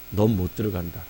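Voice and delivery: God's sentence sinks in, quietly. Retold or imitated. 조용하고 무겁게 되뇌는 선고. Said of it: "뭐라고 얘기냐면".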